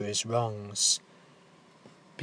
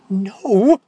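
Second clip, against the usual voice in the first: sudden whisper; 8 semitones higher, 7 dB louder than usual. Acted. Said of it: "he whispers suddenly".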